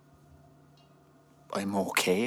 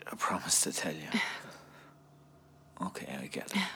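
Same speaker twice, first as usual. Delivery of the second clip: soft whisper; 3 semitones lower, 7 dB quieter, faster than usual. Acted. Husband softly agreeing, emotional.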